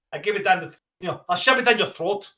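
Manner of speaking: hammed-up Mexican accent; mock Mexican threat. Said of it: "Sound like a Mexican, like, threat".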